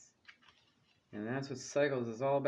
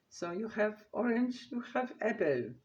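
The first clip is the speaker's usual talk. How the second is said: high, loud mock Greek accent, getting louder; terrible Greek accent; 10 semitones higher, 6 dB louder than usual. Card reader quoting the wedding dad in a bad Greek accent. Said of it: "my terrible Greek accent".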